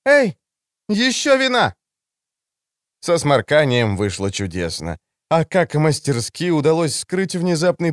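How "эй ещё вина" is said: raised voice. Acted. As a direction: shout across the restaurant for more wine. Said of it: "Она повысила голос".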